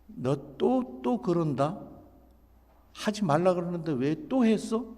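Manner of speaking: mildly scolding, nagging parent; repetitive nagging. Acted. Parent scolding a child for doing it again, nagging. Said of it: "첫 번째는 반복입니다".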